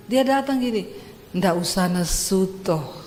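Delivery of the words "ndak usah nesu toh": low, slow mild reproach; lightly voiced husband, lower and unhurried; mild Javanese husband. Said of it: "Kenapa sih kamu kalau ngomong emosi terus".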